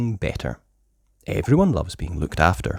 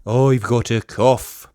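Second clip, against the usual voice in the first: Pedro; 3 semitones higher, 4 dB louder, slower than usual. Acted. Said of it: "says Pedro".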